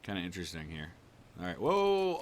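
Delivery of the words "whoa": high, loud drawn-out whoa; startled whoa. Real, not acted. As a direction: blurt it out as you nearly blunder. Almost steers too close while tailing.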